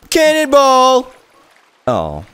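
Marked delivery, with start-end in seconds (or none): 0.1-1.1 high gleeful yell; cannonball yell. Real, not acted. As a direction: shout it as you leap in. Jumping into pool.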